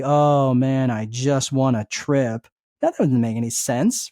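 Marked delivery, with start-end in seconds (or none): 0.0-2.5 slow, deflated mock-gloom; half-hearted sulky mumble; mopey. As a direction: drag it out like nothing good happened. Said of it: "walk around all mopey".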